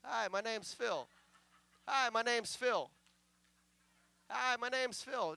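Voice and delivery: identical greeting on a loop, spaced by pauses; same tune every time; mindless repetition. Acted. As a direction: imitate someone stuck repeating himself. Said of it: "all they say is".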